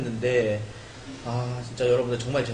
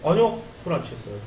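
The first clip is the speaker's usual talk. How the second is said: tipsy denial, slurring a bit. Real, not acted. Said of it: "얼굴이 너무 빨개요".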